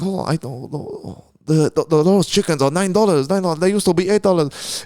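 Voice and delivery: lightly put-on, stumbling Asian accent; mock Asian accent. Comedian playing an Asian shopper at Woolies, mock accent. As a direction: imitate a customer in a rough Asian accent. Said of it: "that guy, that Asian guy".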